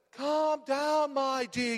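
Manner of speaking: lightly imitated soothing advert line; advert catchphrase. Preacher quoting the motor insurer's advert, lightly mock-soothing. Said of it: "You've seen that advert".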